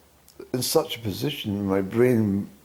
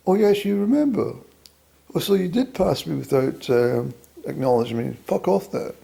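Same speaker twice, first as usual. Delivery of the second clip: higher, louder indignant woman's voice; imagined woman snapping back at him, higher and louder; mock indignant woman; 4 semitones higher, 3 dB louder than usual.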